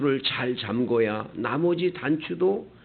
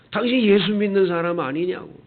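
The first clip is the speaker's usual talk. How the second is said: retold scolding; 3 semitones higher, faster than usual. Fortune-teller challenges a churchgoer who came in, mock scolding. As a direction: imitate a fortune-teller telling someone off. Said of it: "막 야단을 치더라는 거예요".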